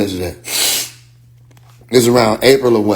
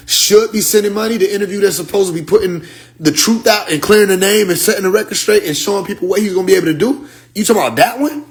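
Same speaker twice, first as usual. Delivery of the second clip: exasperated retold rant; 5 semitones higher than usual. Heated retold argument with Ibrahim.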